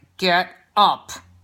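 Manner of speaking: through clenched teeth. Giving a parenting tip, showing the wrong way to tell a child: through a clenched jaw. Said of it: "through a clenched jaw or a clenched face".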